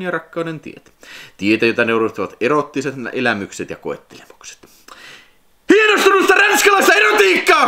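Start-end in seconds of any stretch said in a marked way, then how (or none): 5.7-7.7 very high, loud shouted blurb line; shouting the caps. Real, not acted. Reading the box's capital letters aloud, he shouts the blurb. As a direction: yell it like the all-caps text demands. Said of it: "miksi, miksi mä huusin".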